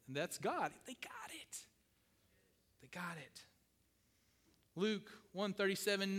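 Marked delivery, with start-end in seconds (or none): 0.9-3.4 soft delighted echo. Acted. Delighted father echoing.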